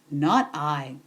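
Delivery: a sly little rat muttering no; low rat voice. Acted. Rat refuses to help.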